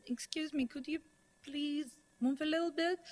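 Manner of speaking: softly imitated polite plea; polite request. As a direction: ask gently and politely, quietly acted out. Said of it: "turns to her and politely says".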